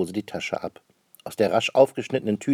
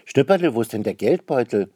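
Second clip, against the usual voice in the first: sudden call; 2 semitones higher, 6 dB louder than usual. A narrator's reading. Mother suddenly calls for her son about the purse, alarmed call. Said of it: "ruft plötzlich".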